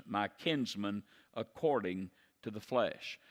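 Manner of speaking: slow, grieving reading; Paul grieving for his kinsmen; heavy sorrow. Retold or imitated. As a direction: weigh each word with anguish. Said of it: "he moves to heaviness".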